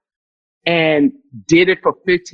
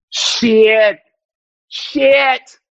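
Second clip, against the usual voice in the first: louder curse; 5 semitones higher, 4 dB louder than usual. Acted. Swearing louder each time.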